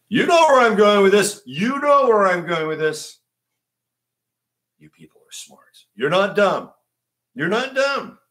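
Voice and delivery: a light Trump voice, praising the audience; mock Trump, buttering up the listeners; Trump impression. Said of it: "Let me see if I can do my Trump".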